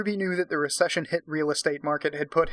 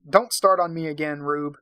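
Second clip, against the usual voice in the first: louder, leaning on start; irritated warning; 4 dB louder than usual. Acted. Husband snaps at wife to stop nagging, irritated. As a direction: push the warning harder this time. Jack repeats line, louder retake.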